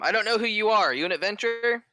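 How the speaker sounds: high, loud doubting challenge; suspicious official pushing back; sceptical lord. Acted. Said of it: "He goes".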